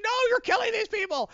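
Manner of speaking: high-pitched horrified shout; freaking out. Retold or imitated. Superman seeing tanks crush people, high freaked-out cry. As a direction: protest in an acted, very high cry. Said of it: "Superman freaks out".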